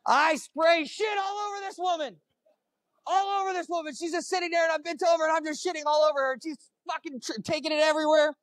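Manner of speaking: high-pitched, frantic retelling; worked-up storytelling. Retold or imitated. Comedian recounting the disastrous mess to the crowd, high-pitched and frantic. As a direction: push the pitch way up in comic horror. Climax of humiliating bathroom story.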